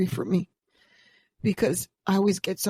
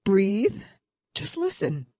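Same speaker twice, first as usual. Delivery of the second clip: steadying herself, pitch dropping on the second phrase; calming self-talk; slower than usual. Retold or imitated. Podcaster coaching herself through first-publish nerves, calming. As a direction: talk yourself down from panic. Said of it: "And then I go".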